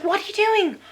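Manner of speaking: put-on high, loud frustrated yell at a child; re-enacting shouting at her son in frustration; exasperated shouting. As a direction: let the frustration burst out. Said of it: "you're just like".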